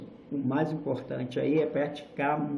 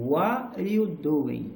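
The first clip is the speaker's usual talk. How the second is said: stretched "What are you doing?" rising to "you", then falling; slow wave of pitch through "What are you doing?"; rise and fall intonation; slower than usual. Shown as a demonstration. Teacher modelling a phrase to copy, slow rise and fall. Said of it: "é esse sobe e desce".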